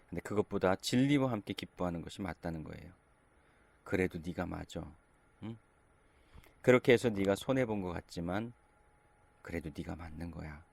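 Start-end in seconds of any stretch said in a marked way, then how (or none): 3.8-10.6 gentle encouragement. Retold or imitated. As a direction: reassure a friend who lost out. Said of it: "이렇게 말해주는 거죠".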